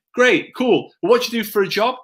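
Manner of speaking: high-pitched, upbeat reaction rolling into a question; interested questioner. Acted. Coach models small talk about work, interested questioner. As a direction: act keen to know them. Acting out a getting-to-know-you chat.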